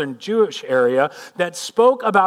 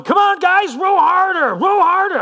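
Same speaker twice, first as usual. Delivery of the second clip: high, loud urgent shouts; yelling; 13 semitones higher, 6 dB louder than usual. Acted. Peter to the fishermen rowing in the storm, yelling. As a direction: yell orders at the crew. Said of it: "Peter's yelling".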